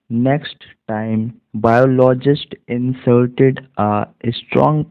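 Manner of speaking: very slow word-by-word English reading; slow practice reading. Shown as a demonstration. Teacher reading a story to Hindi-speaking students, slow and clear. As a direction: read each word slowly for students to repeat.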